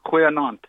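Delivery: "goeienaand" with throaty opening kh; Afrikaans pronunciation. Shown as a demonstration. Caller repeating the phrase for the hosts, native Afrikaans pronunciation. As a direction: model "goeienaand" clearly as khwe-naand, falling. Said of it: "Good evening".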